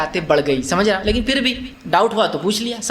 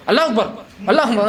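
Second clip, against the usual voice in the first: stubborn insistent call. Retold or imitated. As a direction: hammer out Allahu Akbar with a laugh. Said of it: "کچھ لوگ بضد". (ضدی نمازی کی نقل، ہنستے ہوئے زور سے اللہ اکبر)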